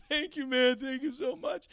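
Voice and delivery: lightly imitated English accent, thankful. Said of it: "this surprisingly English accent guy".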